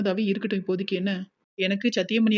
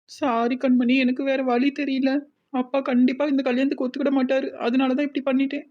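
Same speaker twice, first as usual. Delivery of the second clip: crying; 4 semitones higher than usual. Acted. Sister apologizing on the phone for eloping, crying. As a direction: sob out the apology. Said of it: "சரிக்கா, அழாத".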